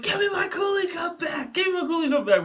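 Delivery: high shouted demand; mock angry shout. Friend banging on car windows, high mock shout. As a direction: yell it like he's pounding the glass. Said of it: "banging on the windows like".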